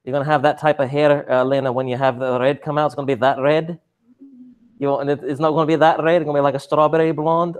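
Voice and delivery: playful mock Scottish accent; put-on Scots for fun. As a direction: slip into a loud Scottish burr. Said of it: "turning this into a Scottish accent".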